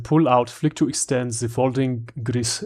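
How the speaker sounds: lightly hammed-up German accent; bad German accent. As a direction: read it in a clumsy mock German accent. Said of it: "Now I've gotta read it in German accent".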